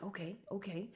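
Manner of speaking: soft, hushed dopey agreement; dim-witted sidekick. Retold or imitated. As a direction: lightly imitate a clueless yes-man. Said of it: "Red is so stupid".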